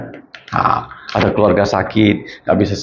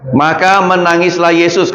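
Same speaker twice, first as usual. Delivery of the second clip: verse recited on cue, a touch raised; reading aloud; 5 semitones higher than usual. Shown as a demonstration. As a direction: read Maka menangislah Yesus out together on the count. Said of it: "Coba baca, satu, dua, tiga".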